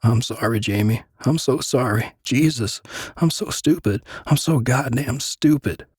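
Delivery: high, sobbing apology, pitch cracking up; crying. Acted. Frankie begging Jamie's forgiveness, sobbing and breaking. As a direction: weep out the apology in pieces. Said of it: "He was crying".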